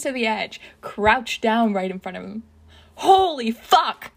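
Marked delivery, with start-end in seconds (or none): 2.9-4.1 high, loud, drawn-out yell; stunned shout, stretched out; startled yell. A narrator's reading. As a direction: yell it slowly in shock. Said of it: "Tamura yells".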